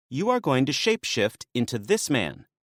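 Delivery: lightly voiced younger woman, teasing; a hint of a sly maenad needling him. Maenad Lalaya teasing Dionysus about Ariadne, lightly voiced.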